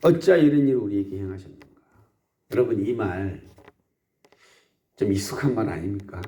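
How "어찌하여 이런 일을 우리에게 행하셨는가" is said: quick resentful reading of 어찌하여; resentful quote. Retold or imitated. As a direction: blame fate, fast. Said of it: "서로 막 원망하면서".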